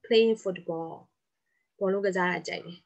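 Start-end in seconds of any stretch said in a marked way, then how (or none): 0.0-0.9 slow dictation. Shown as a demonstration. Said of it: "ဘာကြိုက်လဲ".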